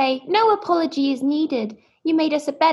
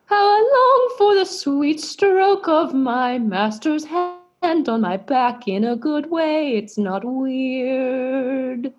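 mock yearning; slower than usual. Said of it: "translating Sweet Tim's thoughts".

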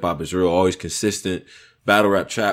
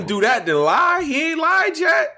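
heated shouting; 14 semitones higher than usual. Real, not acted. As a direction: yell it to win the argument. Heated defence in an argument.

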